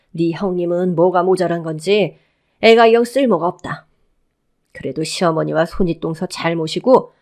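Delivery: domineering mother-in-law laying down rules; stern mother-in-law. Acted. Mother-in-law ordering the youngest of the house, stern. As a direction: lecture like the head of the household.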